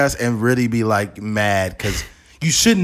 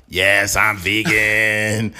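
slow, buzzing throat-machine voice; electrolarynx voice; 4 semitones lower, much slower than usual. Pretend. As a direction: speak through a neck voice box.

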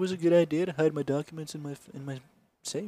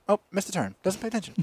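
higher sarcastic sat-nav; a hint of a snippy navigator; mock GPS scold; 5 semitones higher, 3 dB quieter than usual. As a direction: tut at the driver. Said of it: "I'd be like".

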